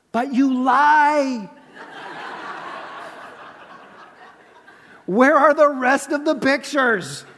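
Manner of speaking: playful laughing jab; teasing laugh. Real, not acted. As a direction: laugh as you call them out.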